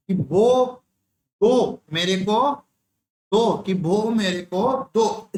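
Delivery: put-on slow baby talk, child lisping for chocolate. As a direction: babble the words like a lisping toddler. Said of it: "तोतली आवाज में बोल रहा है". (तोतली आवाज़ में धीरे-धीरे बच्चे की तरह)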